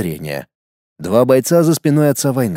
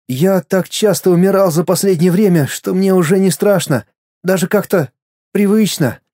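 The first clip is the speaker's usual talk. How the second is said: put-on boy's inner voice; 5 semitones higher than usual. Мальчик о смерти.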